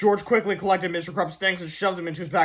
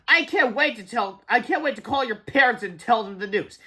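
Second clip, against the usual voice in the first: higher, gleeful taunt; gloating teacher; 5 semitones higher than usual. A narrator's reading. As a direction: savour breaking the bad news. Teacher gloats over suspended boys.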